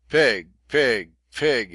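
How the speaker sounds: high, loud furious chant of pig; yelling at the top of his lungs. A narrator's reading. Leach screaming up at the captain in rage. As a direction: hurl the word up at him, raging. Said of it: "reiterating at the top of his lungs".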